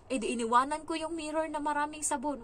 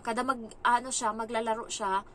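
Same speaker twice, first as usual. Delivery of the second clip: normal talking voice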